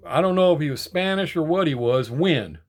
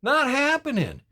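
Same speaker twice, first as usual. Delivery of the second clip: loud, higher, slow no-nonsense dismissal; firm refusal; 7 semitones higher, 6 dB louder, slower than usual. Retold or imitated. Voicing Trump refusing the woke agenda, loud firm dismissal. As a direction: slam the door, then draw out get out of here. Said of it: "why we want Trump back in there to say".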